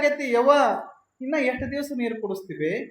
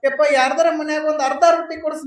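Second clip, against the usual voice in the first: begging mother; 2 semitones higher, 5 dB louder, faster than usual. Acted.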